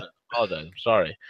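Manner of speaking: soft and sheepish; quietly sheepish apology. Real, not acted.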